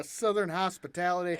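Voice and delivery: a light Southern drawl on southern hospitality. Shown as a demonstration. Showing a friend his Southern drawl, lightly drawled. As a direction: ease into a gentle Southern drawl. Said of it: "Yeah, there it is".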